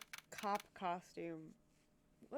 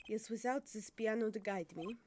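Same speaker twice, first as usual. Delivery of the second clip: put-on French accent; formal line with a French accent. Interpreter praising the pianist, French accent. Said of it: "I have to do the French accent again".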